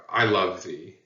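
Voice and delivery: tender, loving delivery; a light touch of affection; affectionate. Shown as a demonstration. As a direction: say it as a fond declaration. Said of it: "I'm using it very affectionately".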